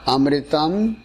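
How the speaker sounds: slow, one word at a time. Shown as a demonstration. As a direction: break it into slow single chunks. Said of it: "one word at a time".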